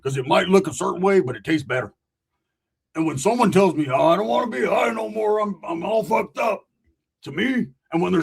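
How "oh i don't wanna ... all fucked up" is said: whiny stoner. Retold or imitated. Mocking a friend who got too high, lightly whimpering. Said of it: "saying it like this".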